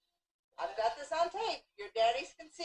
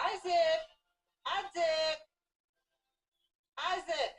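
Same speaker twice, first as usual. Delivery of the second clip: calling out; 5 semitones higher, slower than usual. Real, not acted. Calling the cat by name.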